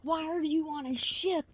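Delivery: high-pitched, agitated disbelief; worked up. Retold or imitated. Scolding ship passengers on a video, high and worked up. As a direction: fret at them in a high, worked-up voice. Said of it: "I get myself worked up".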